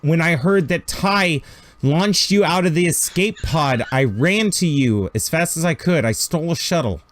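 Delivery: Jessica, urgent on comm. Acted. Jessica keeps talking on comm.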